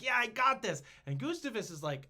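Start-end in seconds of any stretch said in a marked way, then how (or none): 0.0-0.8 high, loud cocky brag; cocky boast. Retold or imitated. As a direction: crow it like a sure winner. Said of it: "and he's like".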